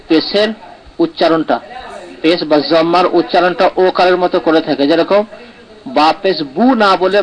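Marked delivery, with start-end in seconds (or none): 6.0-6.6 বু with a long, pure u; maruf vowel. Shown as a demonstration. Teacher showing students the correct vowel, maruf vowel. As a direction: say বু with a clean closed u. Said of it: "এটা হচ্ছে মজহুল".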